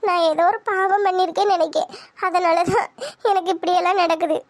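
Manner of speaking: mildly weepy self-blame; understated tearful lament. Acted. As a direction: blame yourself, close to tears. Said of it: "அழுகாத".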